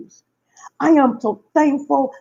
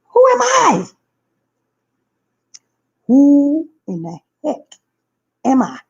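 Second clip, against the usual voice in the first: exclaiming; 5 semitones higher, 4 dB louder than usual. Real, not acted. Self-mocking outburst.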